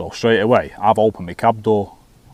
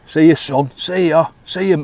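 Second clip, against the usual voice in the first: higher-pitched mocking goodbye; cheeky retold send-off, pitched up; taking the piss; 6 semitones higher than usual. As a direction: taunt a lad as he walks off. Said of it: "taking the piss".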